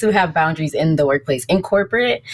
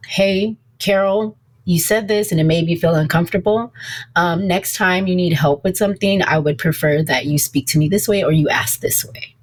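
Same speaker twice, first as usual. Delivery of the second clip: scripted boundary talk. Shown as a demonstration.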